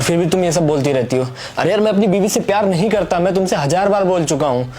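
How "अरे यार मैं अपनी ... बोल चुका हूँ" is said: exasperated, higher-pitched protest; insist, fed up with repeating it; raised voice in anger. Acted. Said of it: "मैं तुम पे इतना चिल्लाया".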